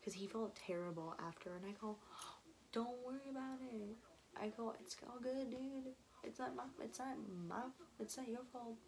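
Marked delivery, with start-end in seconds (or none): 2.7-8.8 higher-pitched retold reassurance; reassuring. Telling Will not to worry when he felt terrible, reassuring. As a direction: lightly imitate comforting a friend, pitched up.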